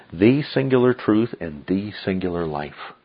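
"the singular" weighted before each noun; emphatic. Shown as a demonstration. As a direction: spell out "singular" deliberately both times. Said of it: "it comes across like this".

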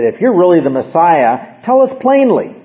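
pushy, rising demand; mock challenge with a sharp final rise; challenging demand. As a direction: challenge him to say it outright. Challengers demand Christ declare himself.

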